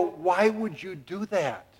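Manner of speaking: very slow, drawn-out question; baffled disbelief. Retold or imitated. Father asks son why, very slow and incredulous. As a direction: stretch it out in disbelief.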